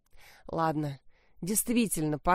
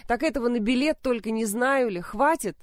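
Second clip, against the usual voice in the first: louder, higher angry yelling; shouting; 5 semitones higher, 3 dB louder than usual. Acted. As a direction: yell it at your daughter. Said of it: "Мать заорала".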